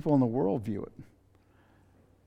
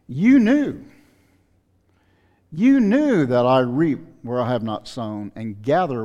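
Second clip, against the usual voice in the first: a sharp, loud cry of accusation from the master; stern rebuke; 6 dB louder than usual. Acted. Master confronting the lazy servant, loud accusing rebuke.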